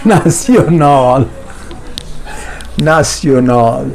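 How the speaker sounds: ناسیونال with a clear a and s sound; correct pronunciation. Shown as a demonstration. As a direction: say ناسیونال, not ناشنل. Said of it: "نہ، نہ۔". (ناسیونال صحیح تلفظ کے ساتھ)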